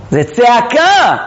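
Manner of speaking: slow, stretched-out call; crying out. Shown as a demonstration. Teacher showing the word means a cry, calling out. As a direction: raise it into a drawn-out cry. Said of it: "היא צועקת".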